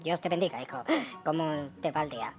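low gentle father voice; dad voice. Acted. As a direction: bless him like a tired dad. Dad blesses son.

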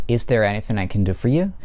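is there anything I can do for you with do stressed, rising at the end. Shown as a demonstration. Teacher models a yes-no question stressing do. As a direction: lean on do and lift at the end. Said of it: "под ударением находится глагол do".

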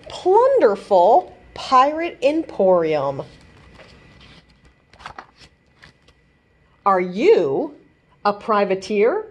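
lively picture book read-aloud; reading to children. A narrator's reading. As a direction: read the rhyming story to kids. Reads pirate picture book aloud.

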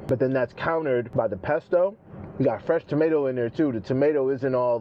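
speaking between bites; talking while chewing. Real, not acted. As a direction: mouth full of food. Seen 0: Bite taken at -1; cheek full, chewing while talking throughout.

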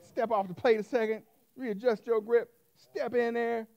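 hushed sportscaster setup; mock announcer build-up; coach murmur. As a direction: lead the batter in like a commentator. Preacher acting golf/baseball scene.

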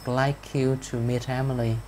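slow but joined "I'd like you to meet Emily"; connected model, slowly, of "I'd like you to meet Emily"; linked sounds. Shown as a demonstration. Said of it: "chúng ta sẽ có cái nối âm ở đây".

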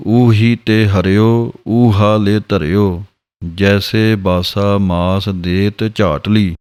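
slow measured recital; scripture recitation. Shown as a demonstration. Teacher to students, reciting the scripture line slowly. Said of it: "ਦਰਸ਼ਨ ਕਰਨਾ".

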